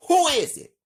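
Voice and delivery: father yelling to a knock at the front door. Acted. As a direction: call out loudly through the door. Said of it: "Scott yells".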